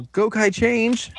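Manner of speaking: high, stretched-out team cry; mock battle call. Storyteller acting out the team's transformation, high drawn-out call.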